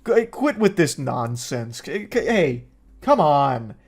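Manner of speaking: slow, lightly voiced let-down parent; a hint of a tired parent tutting; disappointed parent. Mother mildly chiding the demon like a disappointed parent. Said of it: "like a disappointed parent".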